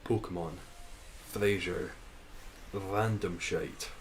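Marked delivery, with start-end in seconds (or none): 2.7-3.9 slow, with "shite" leaned on hard; stress on shite. Shown as a demonstration. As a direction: drag it out and land on "shite". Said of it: "Emphasis on shite".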